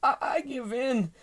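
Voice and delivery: high, loud, stammered surrender; mock sobbing. A narrator's reading. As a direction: play a defeated dinosaur's sob. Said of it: "sobbed the super hungry dinosaur".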